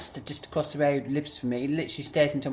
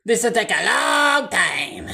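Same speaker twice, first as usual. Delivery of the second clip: slow drawn out; 7 semitones higher, 7 dB louder, much slower than usual. Real, not acted. Dragging the words out slowly.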